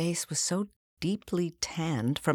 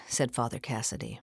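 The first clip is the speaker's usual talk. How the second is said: ordinary delivery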